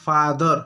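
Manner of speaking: father said with a long open आ sound; pronunciation demo. Shown as a demonstration. Teacher modelling the English word father for Hindi students, clear and deliberate. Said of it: "father में उसी ए को आप आ पढ़ रहे हैं".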